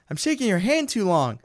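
mildly mimicked flustered fan; starstruck freak-out. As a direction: imitate someone nervously overawed. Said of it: "he's just freaking out the whole time".

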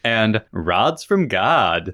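put-on slow, drawn-out Valley Girl lilt. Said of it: "You said that with a little bit of a Valley Girl voice".

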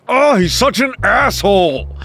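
high-pitched, venting indignation; exasperated outburst. Acted. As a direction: storm in and vent about someone. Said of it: "he just storms into your room".

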